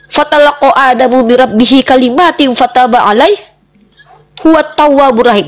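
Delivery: verse recited briskly at speaking pitch; scripture quotation. Real, not acted. Debater quoting the Quran as proof to her opponent, firm recitation. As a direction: recite the verse firmly, in phrases.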